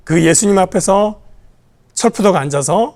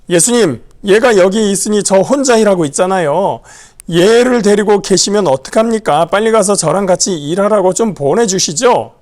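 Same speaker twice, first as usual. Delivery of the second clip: louder, a pushy complaining demand; demanding, irritated; 3 semitones higher, 4 dB louder than usual. Acted. Martha demanding Jesus send her sister to help, irritated. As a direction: press Jesus sharply, a touch of annoyance. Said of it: "따지듯 하는 말투가 튀어나옵니다".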